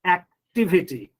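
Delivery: acTIVity, with TIV the strongest syllable; Activity stressed on the third syllable from the end. Shown as a demonstration. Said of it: "Why I'm giving stress on T?".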